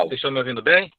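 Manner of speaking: choppy breaking-up connection; words dropping out over a bad line; radio breaking up. Real, not acted. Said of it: "Tá picotando muito". (áudio picotando)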